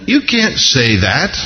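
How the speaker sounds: slow objection with a questioning rise; gently object, lifting the end; mild mock objection. Preacher objecting to Peter's answer, mild mock objection.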